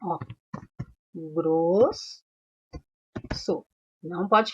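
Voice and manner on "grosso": "grosso" broken as gros, so, with a long pause; split into syllables. Shown as a demonstration. Teacher dividing the word for pupils, "grosso" syllable by syllable. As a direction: hold "gros", stop, then add "so". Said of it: "Como nós separamos a palavra grosso?".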